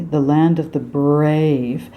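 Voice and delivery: "brave" with an exaggerated R; overdone American R. Shown as a demonstration. Coach mocking a fake American R. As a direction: ham up "The land of the brave". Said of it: "what you think is an American R".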